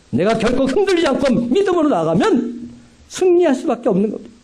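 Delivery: 훨씬 높은 목소리로 확신에 차 외치듯; 믿음의 승리를 힘차게 선포하듯; 고조된 설교. Acted. (높이 끌어올린 설교 선포)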